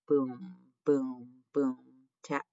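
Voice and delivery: even, spaced drum imitation; drumbeat. A narrator's reading. Narrator imitating the drum in the crowd, drumbeat. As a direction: sound out each beat like a drum. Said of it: "went the drum".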